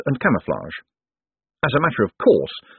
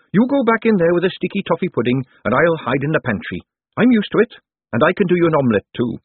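maid voice; 9 semitones higher, 3 dB louder than usual. Acted. Peggy instructs Moist.

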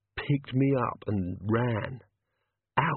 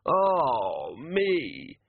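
pained yelp; 3 semitones higher than usual. A narrator's reading. Hammer hits.

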